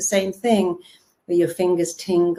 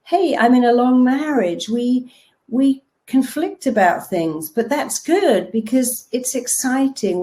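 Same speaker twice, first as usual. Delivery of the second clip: upbeat reframe; 5 semitones higher than usual. Retold or imitated. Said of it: "or something simple".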